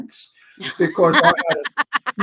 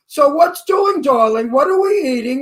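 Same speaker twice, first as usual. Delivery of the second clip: Jewish relative voice; 5 semitones higher than usual. Retold or imitated.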